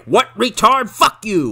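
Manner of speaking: acted-out hostile yell; mock angry retort. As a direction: snap back like an obnoxious bully. Jerk's retort in retold argument.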